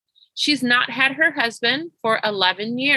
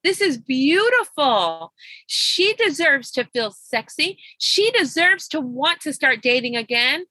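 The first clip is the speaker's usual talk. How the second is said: slow, higher-pitched plea, overcome; emotional prayer; 4 semitones higher than usual. Retold or imitated. Coach praying over her client's news, slow and moved. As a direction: marvel aloud to God, drawing the words out. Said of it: "I just started crying".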